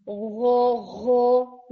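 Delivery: गो hit hard like a plain g; wrong hard version. Shown as a demonstration. Teacher showing another incorrect ghain. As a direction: snap गो out, the wrong way. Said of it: "यानी यूं करके नहीं बोल रहे".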